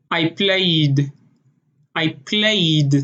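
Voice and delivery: Israeli accent, played with a rolled flap R. Shown as a demonstration. Teaching how Israelis say it, in an Israeli accent. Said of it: "they would say".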